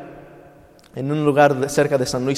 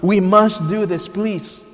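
slow, drawn-out mild plea, softening on the last word; insistent pleading father; 2 semitones higher, slower than usual. Retold or imitated. Father refusing to let his son down, slow pleading insistence.

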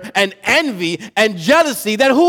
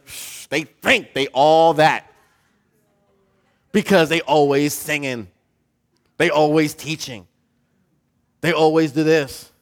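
hushed, quick, snide "Shh, they think they all that"; gossiping church member; 6 semitones lower, 4 dB quieter than usual. Acted. Preacher voicing a jealous gossip talking to Eric, hushed and snide. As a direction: whisper gossip behind someone's back. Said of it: "to being like".

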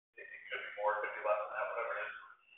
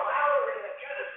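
anxious inner question. Retold or imitated. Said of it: "I'm thinking to myself".

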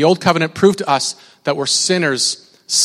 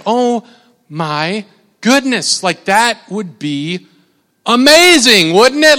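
awed exclamation; 2 semitones higher, slower than usual. Retold or imitated. Preacher imagining the view from the mountain, awed and rising. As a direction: marvel at it, building to amazement. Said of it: "it's like".

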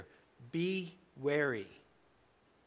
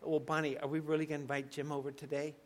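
quick, softer aside to Bonnie; mock grumble; 6 dB quieter, much faster than usual. Pastor grumbling to Bonnie about Jim, mock undertone. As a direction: grumble it just loud enough to overhear. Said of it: "loud enough for me to say".

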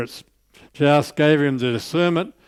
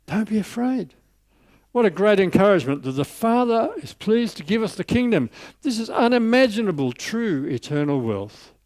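preaching fervor; 7 semitones higher than usual. Acted. Preacher exulting over the verse.

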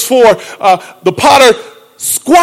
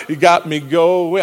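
like my pastor; 5 semitones lower, 4 dB quieter, slower than usual. Retold or imitated. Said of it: "I sound like my pastor right now".

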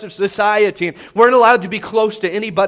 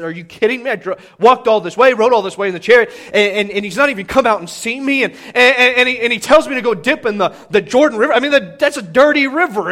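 a touch of indignant complaint, a bit louder; mild frustration; 4 semitones higher, 5 dB louder than usual. Retold or imitated. Naaman complaining about the muddy river, mildly indignant. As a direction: huff like a proud man insulted. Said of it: "he gets in a little bit frustrated".

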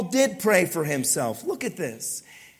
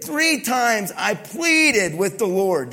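loud pleading Paul; 2 semitones higher, 4 dB louder, slower than usual. Acted. Preacher voices Paul's plea.

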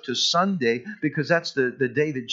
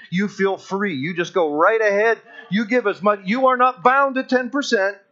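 teasing the skeptic, then pushing them to give more; playing along. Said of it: "I'll play along with him and I'll say".

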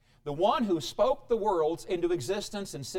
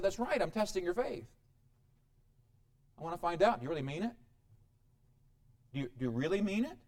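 calm answer; 5 dB quieter, faster than usual. Acted. God answering calmly.

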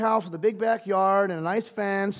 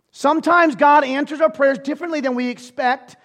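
loud preaching; 5 semitones higher, 8 dB louder than usual. Shown as a demonstration. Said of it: "same line said loud earlier".

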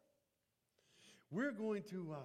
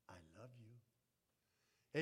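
slow, soft, lowered "I love you"; gentle whisper; 8 semitones lower, 6 dB quieter, much slower than usual. Retold or imitated. Preacher voicing God whispering to weary people, slow and hushed. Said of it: "whisper to them".

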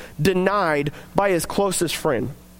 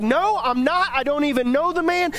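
heated denial; 4 semitones higher than usual. Retold or imitated. Acting Peter's heated denial.

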